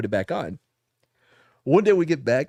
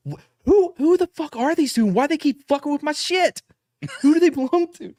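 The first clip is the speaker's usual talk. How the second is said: retold angry yelling; 13 semitones higher than usual. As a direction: play the outraged sergeant major, bellowing. Sergeant major's furious outburst retold.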